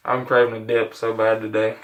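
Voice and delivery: speaking with a dip in; chewing tobacco. Real, not acted. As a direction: lip full of tobacco. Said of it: "we gotta pack a lip first".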